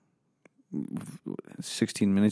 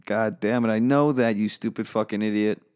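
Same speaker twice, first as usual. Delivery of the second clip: sudden loud angry outburst; angry snap; 4 dB louder than usual. Acted. Host to a crew member who corrected him, angry outburst. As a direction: bite back at the idiot.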